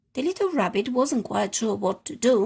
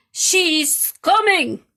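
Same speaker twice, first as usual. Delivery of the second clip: excited; 7 semitones higher, 9 dB louder, much slower than usual. Acted. Rescuers think rabbit is rising.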